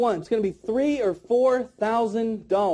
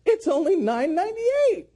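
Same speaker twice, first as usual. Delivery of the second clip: high, sustained "nine ninety-eight"; playful price reveal; 9 semitones higher than usual. Shown as a demonstration. Trainer revealing the second drop, high and playful.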